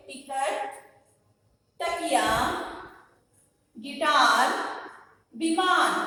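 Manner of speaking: one word at a time, projected clearly; pronunciation demo. Shown as a demonstration. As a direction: model टिकट, तकिया, गिटार, विमान with long pauses. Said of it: "अब हम इसका उच्चारण करेंगे".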